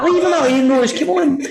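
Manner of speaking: high, mock stern granddad telling her off; serious granddad. Granddad tells granny to stop talking, mock stern. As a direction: hush her like a know-all granddad. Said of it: "He's like".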